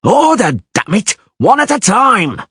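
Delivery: high, harsh shouted order; yelling soldier. Acted. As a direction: bellow for order.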